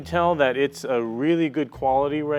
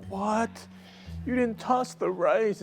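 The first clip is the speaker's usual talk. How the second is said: upset Asian parent; 8 semitones higher than usual. Retold or imitated. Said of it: "They'll be like".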